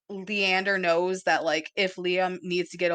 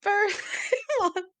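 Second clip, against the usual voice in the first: high, slow, laughing; laughing sing-song; 12 semitones higher, slower than usual. Real, not acted. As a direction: squeal it with a laugh. Laughing, excited about birthday.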